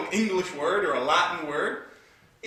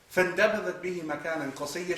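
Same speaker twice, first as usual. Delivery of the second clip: rapid chanted Arabic recitation; Quranic recitation; much faster than usual. Acted. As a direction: recite the verse quickly.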